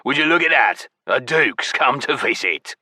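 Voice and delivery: mock-impressed creature voice; mocking goblin. A narrator's reading. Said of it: "the goblin drawled mockingly".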